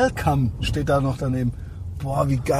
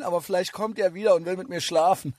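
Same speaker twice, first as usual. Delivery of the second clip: giggling through the words; half-laughing tease; 3 semitones higher, 3 dB quieter than usual. Real, not acted. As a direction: laugh while joking. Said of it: "laughs at own joke".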